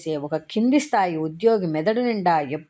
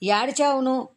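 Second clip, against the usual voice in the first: sobbing plea; 8 semitones higher than usual. Acted. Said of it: "మళ్ళీ అదే మాట".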